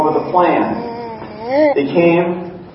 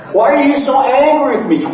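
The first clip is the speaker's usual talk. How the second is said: higher, louder and quicker plea; talking louder; 11 semitones higher, faster than usual. Acted. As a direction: push the plea out over the dead mic. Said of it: "I'll just talk louder".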